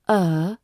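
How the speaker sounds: a short lazy er, never stressed; schwa sound. Shown as a demonstration. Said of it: "is the schwa sound".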